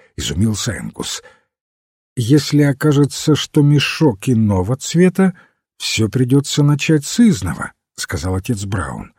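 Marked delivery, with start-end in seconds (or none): 2.1-7.7 lightly voiced priest, pitched higher; a hint of a high-voiced priest; priest character. Narrator voices Father Brown. (священник, повышенным тоном)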